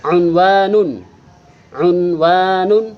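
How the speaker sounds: unwanun said slowly, each syllable clear; model Arabic word. Shown as a demonstration. Teacher modelling Arabic vocabulary for pupils, slow and clear. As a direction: say unwanun drawn out for pupils to repeat. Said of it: "Yang pertama".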